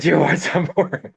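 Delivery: slow, high mock-tough taunt; slow, high retold taunt over a downed opponent; menacing taunt. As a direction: needle the beaten man slowly. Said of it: "and I goes".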